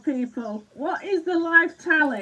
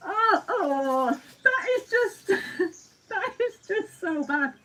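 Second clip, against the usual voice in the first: laughing; 2 semitones higher than usual. Real, not acted. Laughing at Cheryl's comment.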